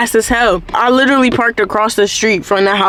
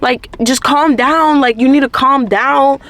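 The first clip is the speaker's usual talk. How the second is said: higher-pitched mock girlfriend urging calm; light girlfriend impression, pitched up; imitated girlfriend; 4 semitones higher than usual. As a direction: imitate a girlfriend telling him to settle down. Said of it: "My girlfriend over here talking about something".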